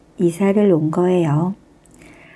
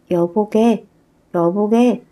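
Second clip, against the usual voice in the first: goblin calling. Acted. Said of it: "하고 농부를 불렀어요".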